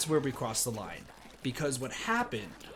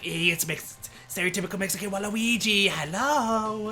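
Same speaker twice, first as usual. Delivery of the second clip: higher, louder, fast camp greeting; stereotypical Mexican Waluigi; 7 semitones higher, 5 dB louder than usual. Retold or imitated. Mid-race taunt to friends in second place, loud camp Waluigi. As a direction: sing out the hello as a flamboyant Waluigi. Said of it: "It was stereotypical homosexual Waluigi".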